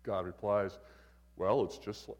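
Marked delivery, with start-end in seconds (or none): 1.4-2.1 lightly voiced God. God replies to the man, God voice. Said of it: "this is my God voice".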